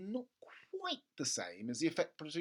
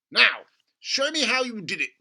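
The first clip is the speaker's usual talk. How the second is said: loud, high eager dad; an impatient father, keen and loud; excited father; 8 semitones higher, 12 dB louder than usual. Acted. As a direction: push him to show you, eagerly. Father voiced in story.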